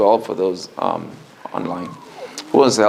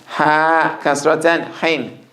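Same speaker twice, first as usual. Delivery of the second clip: ha said higher, breathy from mid throat; high pitched ha; 4 semitones higher than usual. Shown as a demonstration. Teacher shows the high-pitched ha to the class. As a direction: lift the pitch on every ha. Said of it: "the ha is high pitched".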